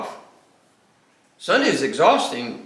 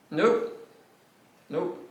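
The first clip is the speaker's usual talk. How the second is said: emphatic nope; 4 semitones higher, 4 dB quieter than usual. Retold or imitated. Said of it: "it was emphatic".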